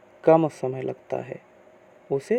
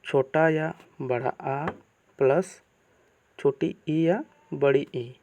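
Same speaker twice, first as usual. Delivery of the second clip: slow, careful listing; slower than usual. Shown as a demonstration. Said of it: "पहला देखते हैं ए".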